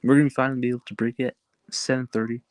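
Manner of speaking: talking around a retainer; speech slightly thick from a retainer; wearing a retainer. Real, not acted. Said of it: "I apologize if I sound a bit different".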